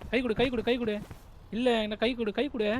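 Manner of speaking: urgent calling out. Real, not acted. Player calling teammate for a hand, urgent calling out. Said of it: "நீ கை கொடுன்னு கத்துற".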